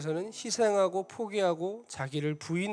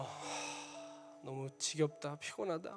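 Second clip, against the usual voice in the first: much softer, worn-out muttering to himself; weary sigh; 12 dB quieter than usual. Retold or imitated. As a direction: sigh it out, exhausted. Tired driver's inner sigh. (지쳐서 훨씬 작게 혼잣말하듯)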